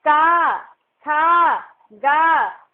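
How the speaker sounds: का, खा, गा each called out loud and crisp, the long आ held full; clear syllable demo. Shown as a demonstration. Teacher modelling का, खा, गा for young pupils, loud and clear. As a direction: sound out का, खा, गा firmly for the class, one by one. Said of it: "इसका उच्चारण देख में किस तरह हो रहा है".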